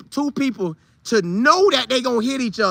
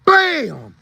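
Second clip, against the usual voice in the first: crash sound; 5 semitones higher, 4 dB louder than usual. Retold or imitated. Imitating trains colliding.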